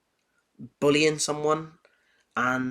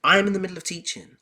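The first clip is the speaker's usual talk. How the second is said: high, loud, fast scolding teacher; stern teacher shutting a pupil down; angry teacher; 6 semitones higher, 8 dB louder than usual. Retold or imitated. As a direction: snap at the child to stop talking. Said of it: "she was like".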